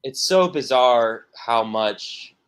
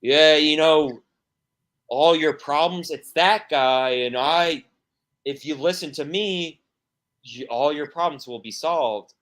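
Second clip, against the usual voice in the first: mock televangelist pitch; 4 semitones higher, 5 dB louder than usual. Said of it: "You, you go".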